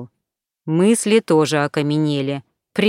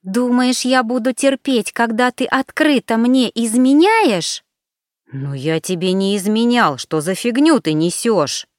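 angry; 5 semitones higher than usual. Acted. Alina accuses him of cheating.

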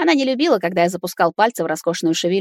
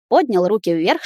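usual speaking voice

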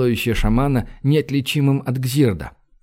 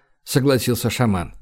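usual speaking voice

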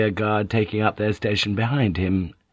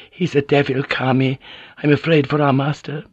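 tearful fear; 5 semitones higher than usual. Acted. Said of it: "The tears began to flow".

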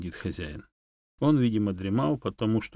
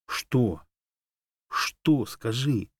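demanding; 5 semitones higher, 3 dB louder, much slower than usual. A narrator's reading. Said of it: "потребовал я".

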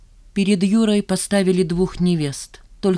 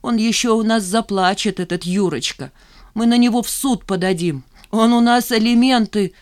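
put-on higher, louder fussing old mother; indignant mother; 5 semitones higher, 3 dB louder than usual. Mother threatening court against Yura, indignant. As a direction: bristle at the groom.

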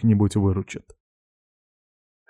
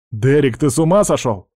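restrained yell of alarm, pitched up; 4 semitones higher, 3 dB louder than usual. Acted. Friend to pirate aiming the rifle, alarmed yell. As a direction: protest in alarm, mildly raised voice. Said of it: "заорал я".

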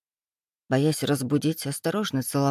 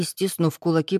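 ordinary delivery, nothing marked

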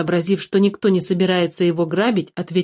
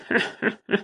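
dwarf laugh; 6 dB quieter than usual. Acted. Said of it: "рассмеялся хранитель подземных сокровищ".

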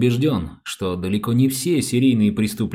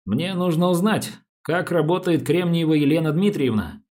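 lightly voiced officer making a request, pitched up; police officer; 3 semitones higher than usual. Officer asking a registry clerk for records, lightly voiced. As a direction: make an official request, a touch higher.

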